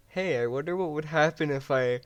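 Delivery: musing then sudden loud oh shit; imitating a player caught off guard; mock startled gamer. Friend acting out a clip, a sudden mock panic.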